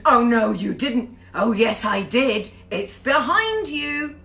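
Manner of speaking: slow, loud panto call-and-response lines. Pretend. Host leading British panto audience participation, loud. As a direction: ham it up like a pantomime dame to the crowd. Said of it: "you do do British, uh, audience participation".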